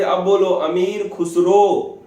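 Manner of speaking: demanding the full name, word by word; strict teacher insisting the boy say अमीर Khusro; teacher drilling. Retold or imitated. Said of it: "फिर बोलते थे".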